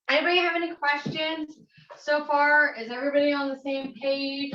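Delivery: mock classroom teacher; playful teacher voice. Playing teacher to the audience.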